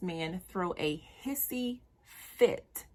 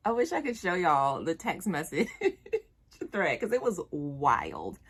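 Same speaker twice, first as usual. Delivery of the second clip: real laugh breaking through; chuckling through the words; laughing while telling; 4 dB louder than usual. Real, not acted. Telling the viewers, laughing.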